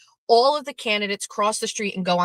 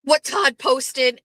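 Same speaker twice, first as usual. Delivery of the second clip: retold screaming; 11 semitones higher, slower than usual. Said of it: "somebody is screaming on the phone".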